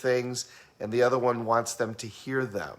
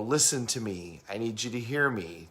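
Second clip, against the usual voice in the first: measured, softer regular voice; 3 semitones lower, 7 dB quieter than usual. Acted. Trainer mimicking auditory people, in a regular voice. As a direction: say it evenly, toned down. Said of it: "talk to you in a very regular voice".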